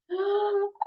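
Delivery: high story-time gasp; excited gasp. Acted. Reader reacts to the banana joke, excited gasp. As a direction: gasp for the listening children.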